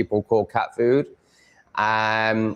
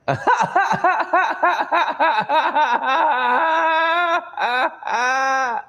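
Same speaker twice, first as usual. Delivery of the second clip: big laugh. Real, not acted. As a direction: crack up hard. Reacting to viewer's message.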